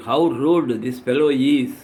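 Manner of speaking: low, understated impatience; impatient. Acted. Official looking at a rude visitor, mildly impatient.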